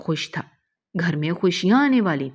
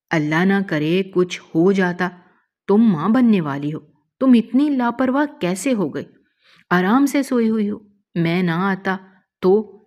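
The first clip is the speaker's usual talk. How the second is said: angry scolding; 3 semitones higher, 3 dB louder than usual. Acted. Husband scolding over gas leak.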